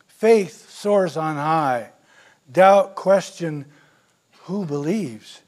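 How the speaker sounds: slow, measured recital; solemn poem read from the pulpit; poem recitation. Acted. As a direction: recite each line slowly, like a solemn verse.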